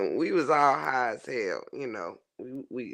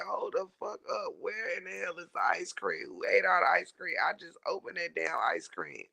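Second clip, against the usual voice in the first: mock angry rant; 2 semitones higher than usual. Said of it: "I'm ready to cuss everybody out".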